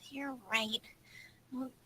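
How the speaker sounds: sigh, then whisper it in defeat; barely voiced, conceding the point; whispered you're right after a sigh; resigned whisper.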